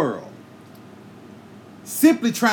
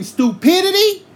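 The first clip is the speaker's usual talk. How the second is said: outraged shout; 13 semitones higher, 6 dB louder than usual. Real, not acted. Angry rant peaks on one word.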